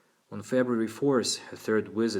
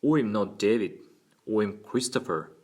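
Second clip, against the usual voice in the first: impish Cockney lad, louder; Cockney boy; 6 dB louder than usual. A narrator's reading. Boy correcting his lawyer on his name, Cockney accent. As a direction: put on a bold boyish Cockney accent. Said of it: "as a boy with a Cockney accent".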